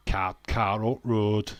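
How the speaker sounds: slow, loud "car up road" in Yorkshire vowels; Yorkshire pronunciation. Shown as a demonstration. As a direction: show off "car up road" slowly and loudly. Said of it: "people ask me to say car on".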